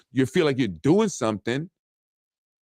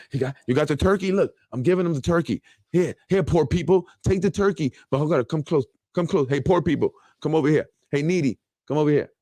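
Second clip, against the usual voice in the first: mock condescending politician; 3 semitones higher than usual. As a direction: play the fake do-gooder calling poor people over. Acting out politician handing out turkeys.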